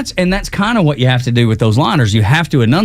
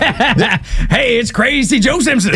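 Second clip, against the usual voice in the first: much higher, hyped DJ shout-out; cartoon radio DJ; 10 semitones higher, slower than usual. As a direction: hype it like a wacky morning DJ. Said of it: "sounds like a cartoon character".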